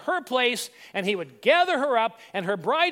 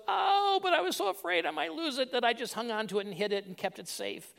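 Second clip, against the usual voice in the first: timid servant; 4 semitones higher, 4 dB quieter than usual. Acted. Fearful third servant excuses himself.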